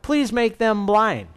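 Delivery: lifted praying voice, mildly acted; prayer. A narrator's reading. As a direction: petition the Lord deliberately. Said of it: "Elisha prayed".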